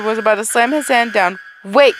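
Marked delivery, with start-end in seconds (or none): 1.6-1.9 sharp call to stop; shout. Acted. Stopping the researcher.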